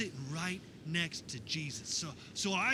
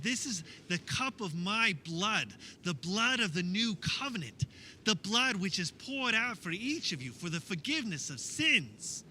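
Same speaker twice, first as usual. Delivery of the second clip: solemn proclamation; 5 semitones higher, 7 dB louder than usual. Acted. Jesus voiced proclaiming the cup.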